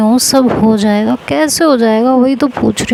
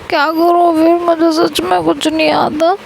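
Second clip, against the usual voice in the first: higher, softened crying voice; teary whimper; 5 semitones higher than usual. Retold or imitated. Rashmi complaining to Neha, still crying. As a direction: act out half-sobbing helplessness. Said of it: "तू रो रही है".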